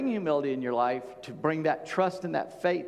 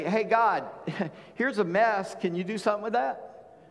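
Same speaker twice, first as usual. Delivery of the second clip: laughing mock prayer; 3 semitones higher than usual. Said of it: "we say".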